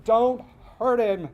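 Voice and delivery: high, loud, drawn-out pleading shout; desperate yelling. A narrator's reading. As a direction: yell like a mother begging her husband to stop. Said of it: "would be dragged along the driveway yelling".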